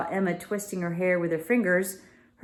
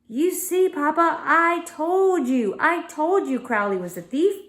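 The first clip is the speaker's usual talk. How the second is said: put-on higher gloating girl; triumphant; 9 semitones higher, 4 dB louder than usual. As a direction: crow that she was right. Voices Emma triumphant.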